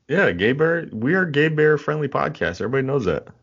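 high, loud mock proclamation; excited. Real, not acted. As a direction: announce it with gusto. Mock announcement of podcast.

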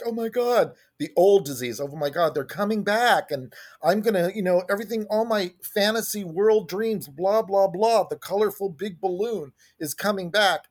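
a touch of mock giddy excitement; hamming up the eager old disease as a voice; excited disease voice. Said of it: "my disease was like".

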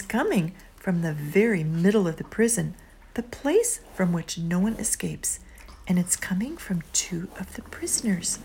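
whispered storytelling. Acted.

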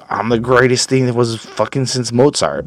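lightly acted self-important pop star; mock boasting. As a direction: imitate a braggart, half in jest. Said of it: "everyone is trying to be the fucking best person".

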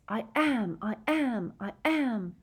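ghostly echo. A narrator's reading. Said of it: "ghostly Harrys seemed to chorus".

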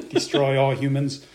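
slow, flat robot voice; toy robot voice. Pretend. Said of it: "I am a robot".

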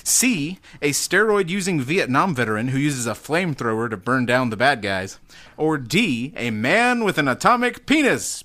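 lightly hammed-up dramatic read; adopted announcer voice. Host reading the remaining quiz options, mild dramatic announcer voice. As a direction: swing the pitch, climbing on the big words. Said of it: "I just adopted that voice".

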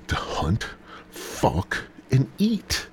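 quiet aside; muttered. Acted. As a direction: drop the rule down to a near whisper. Same rule, muttered quietly.

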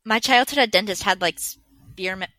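speaking through hiccups; words broken by hiccups. Real, not acted. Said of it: "I have the hiccups really bad".

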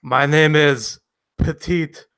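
slow mock French-Spanish accent; French-Spanish puppet accent. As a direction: introduce yourself as a puppet, half French, half Spanish. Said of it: "like a cross between French and Spanish".

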